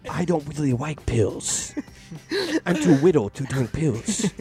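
put-on rising sweet little kid voice; baby voice. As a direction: play an excited toddler. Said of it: "I'm baby Neo".

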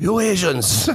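mock Asian accent. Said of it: "he said it in a racist accent".

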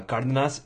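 Cardenas with "duh" middle and open "nahs" ending; Cardenas, second variant. Shown as a demonstration. Offering co-host another surname variant, Cardenas as "KAR-duh-nahs". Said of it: "Some people say".

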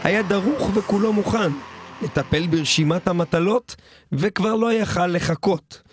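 storyteller reciting a comic ballad; deadpan ballad narration in verse; rhymed ballad recital. Acted. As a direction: tell it in measured rhymed phrases. Recites a rhymed ballad over music.

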